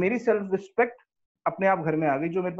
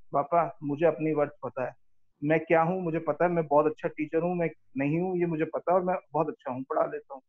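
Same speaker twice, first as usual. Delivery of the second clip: calm, restrained self-assertion, retold; loving but firm; 3 semitones lower than usual. Son telling his father he knows his worth, lovingly firm. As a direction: stand your ground kindly, without shouting. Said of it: "firmly मैंने बोला, ना चिल्लाया".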